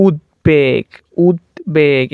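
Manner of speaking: উদ্বেগ slowly as "ud-beg"; b kept. Shown as a demonstration. Teacher showing the b stays, slow "ud-beg" for উদ্বেগ. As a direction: split উদ্বেগ and sound the b. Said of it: "এরকমই হবে".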